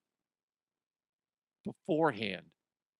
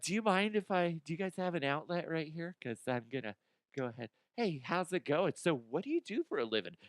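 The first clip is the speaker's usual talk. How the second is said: mock casual date; 4 semitones higher, 6 dB quieter, faster than usual. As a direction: play the date, breezy and unbothered. Acting out blender date.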